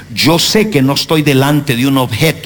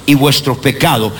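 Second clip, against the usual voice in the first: scripture read aloud together. Real, not acted. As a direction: read the verse aloud in unison, deliberately. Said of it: "vamos a leerlo, uno, dos, tres, go".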